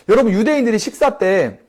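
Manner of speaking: ordinary talk, nothing marked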